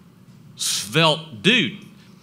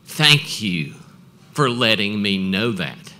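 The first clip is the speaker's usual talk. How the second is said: intimidating; 6 dB louder, slower than usual. Retold or imitated. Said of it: "looks at me real intimidating".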